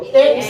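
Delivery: "एक्स" with a long opening e; drawn-out letter. Shown as a demonstration. Teacher leading students' letter drill, drawn out. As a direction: stretch the vowel in "एक्स". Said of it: "अपन उसको खींचो".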